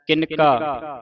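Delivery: ਕਿਨਕਾ with a clear full n; ਕਿਨਕਾ as kin-kaa; sounded n. Shown as a demonstration. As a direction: pronounce the n distinctly in ਕਿਨਕਾ. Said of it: "ਨੰਨੇ ਦੀ ਆਵਾਜ਼ ਉਚਾਰਨ".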